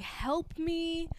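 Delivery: small whispered mock plea; imitated crying plea. Crying man begging for help, whispered imitation. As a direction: whisper it like someone pleading in tears. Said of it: "Jake starts crying".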